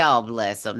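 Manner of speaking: genuine sympathy. Shown as a demonstration. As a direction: say "Oh, bless 'em" kindly, truly meaning it. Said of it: "that's a genuine".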